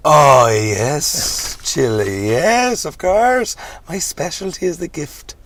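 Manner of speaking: high excited preacher; hammy reverend. Acted. Reverend answers zombie girl.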